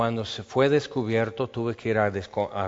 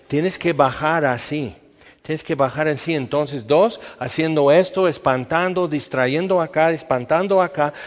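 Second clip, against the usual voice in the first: excited storytelling; 4 semitones higher, 4 dB louder than usual. Acted. Excited retelling of the raid.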